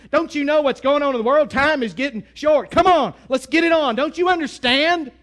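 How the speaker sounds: mock-frustrated believer, rising to a near shout; building exasperated complaint to God. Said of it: "We say".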